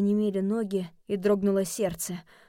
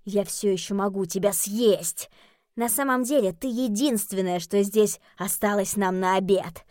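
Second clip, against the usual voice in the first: growled; 3 dB louder than usual. Acted. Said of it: "Джереми зарычал на Пипа".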